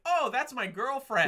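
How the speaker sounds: high, loud, stretched-out exclamation; hammed-up alarmed discovery; mock realization. Acting out hero's realization.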